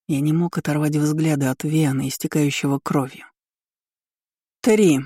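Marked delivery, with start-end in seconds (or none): 4.6-5.0 higher-pitched, drawn-out count; lightly sung-out, gloating count; singsong relish. A narrator's reading. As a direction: savour the moment as you sing out the number. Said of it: "пропела императрица, наслаждаясь моментом".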